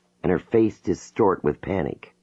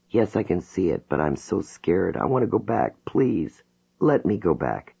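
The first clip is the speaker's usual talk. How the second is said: scared pleading. Acted. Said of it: "She begins sobbing".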